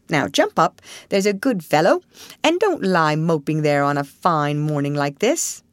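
lightly voiced cheerful rat; coaxing, chirpy rat; twitchy squeaking rat voice.

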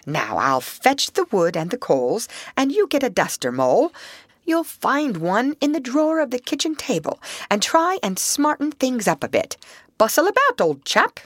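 high, brisk, hearty voice; cheerful bustle. Acted. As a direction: bustle about and cheer him up. Rat bustling, cheering up Mole.

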